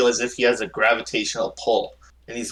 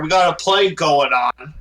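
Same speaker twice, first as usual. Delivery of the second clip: angry rant; 4 semitones higher, 5 dB louder than usual. Acted. Baron rants about priorities.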